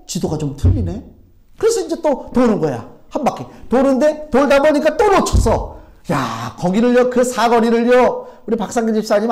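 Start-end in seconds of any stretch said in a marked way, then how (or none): none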